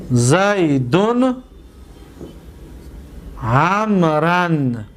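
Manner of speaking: slow, each word held, low fall at the end; زیدون عمرن drawn out and falling; slow model sentence. Shown as a demonstration. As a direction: read the example sentence slowly. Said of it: "ببینید".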